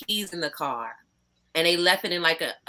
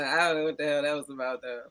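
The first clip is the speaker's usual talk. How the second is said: normal talking voice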